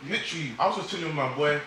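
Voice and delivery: normal talking voice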